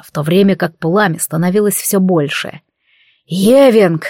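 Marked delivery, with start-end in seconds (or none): 3.2-4.0 громкий рычащий окрик; прорычи имя с яростью; рычание. Acted. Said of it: "зарычал я". (злобный рык)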